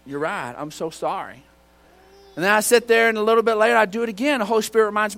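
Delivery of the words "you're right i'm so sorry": lower, softened apology; contrite prayer. Retold or imitated. Driver to the Lord after being checked, contrite. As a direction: quietly own up, imitating a chastened prayer. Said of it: "And I'm like".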